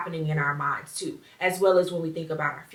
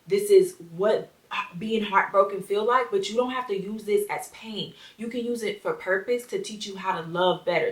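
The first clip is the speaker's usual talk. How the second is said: gentle reassurance. Shown as a demonstration. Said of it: "That's what I would have said to my teenage child".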